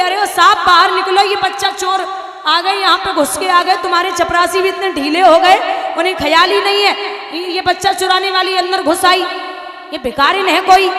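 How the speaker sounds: high, loud panicked shout for the husband; shrill screaming alarm. Acted. Wife screaming at husband that a child thief got in, loud and high. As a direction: scream for help as if a thief broke in. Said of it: "इतनी तेज चिल्लाई".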